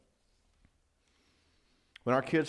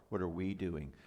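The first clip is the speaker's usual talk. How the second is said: bird's-eye question; 4 semitones lower, 7 dB quieter than usual. Shown as a demonstration. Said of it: "Do you hear the pronouns change?".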